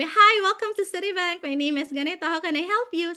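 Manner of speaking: lightly voiced call center spiel, routine and even; a hint of a practised agent script; polite agent greeting. (simpleng boses ng ahente sa call center)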